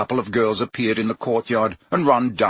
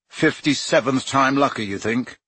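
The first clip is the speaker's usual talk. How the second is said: bitter; 2 semitones higher than usual. Acted. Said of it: "said Harry bitterly".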